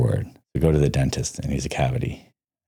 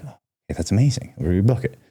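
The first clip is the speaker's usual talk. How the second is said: relieved reply; 6 semitones higher than usual. Retold or imitated. Retelling his relieved reply to son.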